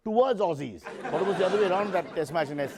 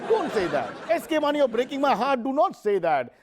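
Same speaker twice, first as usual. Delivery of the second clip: pleading; 8 semitones higher, 4 dB louder than usual. Acted. Host pleads with guest.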